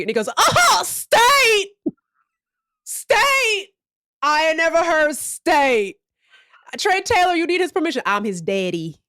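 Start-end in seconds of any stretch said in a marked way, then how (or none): 0.3-8.0 mock pond owner repeating state; Southern redneck. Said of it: "foghorn leghorn". 8.1-9.0 redneck voice. Retold or imitated. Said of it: "foghorn leghorn".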